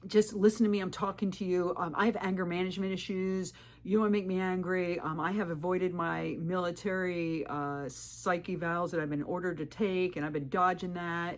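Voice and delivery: lightly mock his threatening lecture; bossy man. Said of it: "And he would do this".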